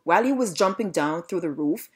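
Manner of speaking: ordinary delivery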